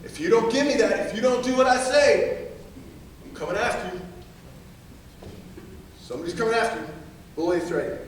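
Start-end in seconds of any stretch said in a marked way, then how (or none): 0.0-6.9 mild mock threat. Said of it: "they will use bullying and threatening you".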